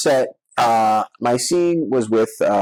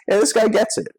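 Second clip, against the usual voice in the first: delighted thought; 13 semitones higher than usual. Retold or imitated. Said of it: "And I was just like".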